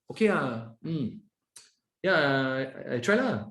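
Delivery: hesitant, halting mock yes that means no; hesitant reluctant yes. A Malaysian employee hedging a no to the boss, hesitant. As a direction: hedge and stall before a weak I try lah. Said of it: "We might communicate no".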